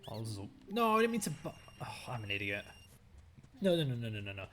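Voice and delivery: annoyed outburst at game; exasperated complaining; frustrated ranting. Real, not acted. Gamer raging at game controls.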